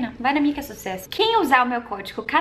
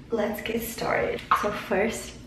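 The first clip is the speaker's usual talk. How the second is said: whisper; 4 dB quieter, much slower than usual. Real, not acted. Começa o vídeo sussurrando em inglês.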